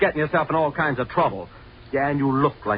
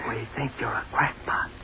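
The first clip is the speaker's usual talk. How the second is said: soft, distant taunt inside his head; faint echoing taunt; haunting memory voice; 6 dB quieter than usual. Acted. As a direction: drift in like a remembered sneer.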